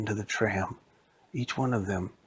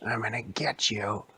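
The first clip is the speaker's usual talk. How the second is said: spooky threat; 3 dB quieter than usual. Acted. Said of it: "spooky man".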